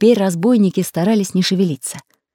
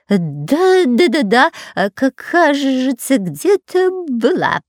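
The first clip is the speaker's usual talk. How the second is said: higher, slower fumbling mumble; mumbling; 7 semitones higher, slower than usual. A narrator's reading. Spy searching his backpack for rope, mumbling. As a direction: mumble while digging in the backpack. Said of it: "промычал Пулькин".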